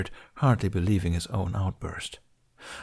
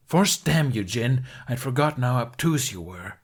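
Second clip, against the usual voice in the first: exasperated curse; 4 semitones higher than usual. Acted. Ben cursing Qui-Gon after a huff, exasperated.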